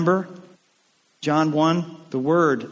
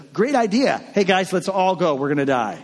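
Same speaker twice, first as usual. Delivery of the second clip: sarcastic; 3 semitones higher than usual. Acted. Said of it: "Thomas was the guy who says".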